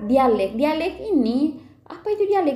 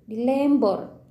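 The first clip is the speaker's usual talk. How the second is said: slowed Manggarai Lembor dialect demo, lilting Lembor intonation; much slower than usual. Shown as a demonstration. Teacher showing students how Lembor people talk, in Lembor dialect. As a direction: give the phrase a Lembor Manggarai lilt. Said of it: "yang kayak gitu".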